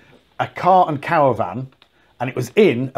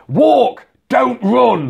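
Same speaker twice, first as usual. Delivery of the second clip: higher, mock-stern safety warning; public info film voice; 6 semitones higher, much slower than usual. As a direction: recite it like an old safety film. Mocking public information film.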